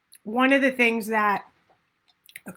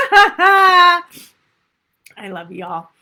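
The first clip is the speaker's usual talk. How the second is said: choked up; 6 semitones higher, 9 dB louder, much slower than usual. Real, not acted. Teary after a long coughing fit.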